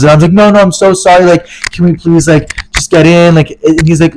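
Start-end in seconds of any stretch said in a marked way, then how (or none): 0.3-3.4 pleading. Retold or imitated. Begging the gate worker.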